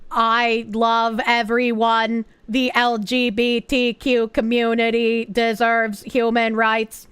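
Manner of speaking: slow, overly earnest; mock normie. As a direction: play the sweet normie. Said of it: "Play the normie card".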